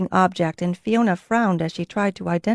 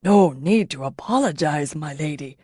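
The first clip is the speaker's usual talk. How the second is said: with obvious pleasure; 4 semitones lower than usual. A narrator's reading. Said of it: "with obvious pleasure".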